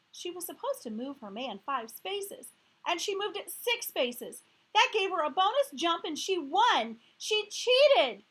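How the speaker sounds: building from level to a loud, high accusation; upset accusing. Acted. Gail explaining to the teacher, building to an angry shout. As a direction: climb to outrage by the end.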